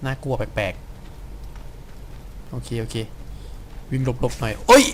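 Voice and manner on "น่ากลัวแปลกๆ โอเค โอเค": breathless hushed murmur, barely voiced; uneasy whisper. Real, not acted. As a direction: whisper it, spooked by the dark. Creepy game scene, hushed.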